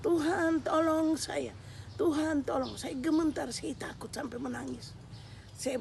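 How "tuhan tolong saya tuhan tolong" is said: terrified plea. Retold or imitated. Witness facing the dragon cries to God, frightened plea. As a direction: beg for rescue with fear in the voice. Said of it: "saya tetap bertahan untuk memanggil nama Tuhan".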